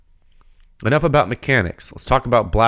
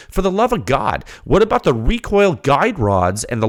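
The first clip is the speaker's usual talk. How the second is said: rising rant, higher pitch, pressing each question; a real heated rant to fellow shooters, firing off questions; getting heated; 4 semitones higher than usual. Real, not acted. Ranting to listeners about neglected silencer design, heated and insistent. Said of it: "I'm getting heated".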